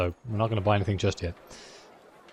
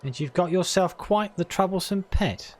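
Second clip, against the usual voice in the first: put-on Cockney accent; 3 semitones higher than usual. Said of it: "I just decided to go full Cockney with that guy".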